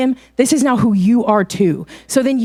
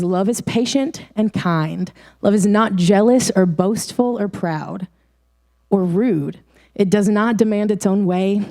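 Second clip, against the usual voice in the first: scripture reading; 2 semitones lower than usual. Acted. Youth leader reads First Corinthians to the group, measured. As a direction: read the verses with steady care.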